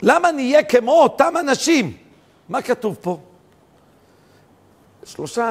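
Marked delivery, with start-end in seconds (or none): 0.0-2.0 high, loud fervent cry; preaching at full force. Acted. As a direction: cry out the people's plea. (הטפה בלהט, זעקה רמה וגבוהה)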